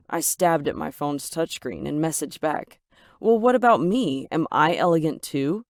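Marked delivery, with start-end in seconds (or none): 3.2-5.6 jealous retort. Acted. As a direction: fire it back, stung and jealous. Jealous reply to Ethan.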